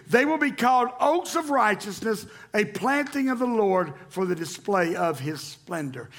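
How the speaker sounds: scripture reading. Acted. Pastor reading Isaiah aloud to church, ringing. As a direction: proclaim the verses to the congregation.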